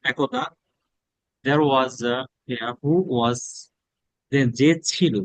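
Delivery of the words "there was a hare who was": slow read-aloud. Shown as a demonstration. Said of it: "teacher reading slowly".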